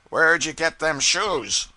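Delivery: slow, loud, high contemptuous drawl; sneering pilot. A narrator's reading. Crusty pilot mocking the cub's shoes, slow and scornful.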